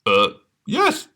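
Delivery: high squeaky fake voice; wolf faking a squeak. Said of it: "squeaked the wolf".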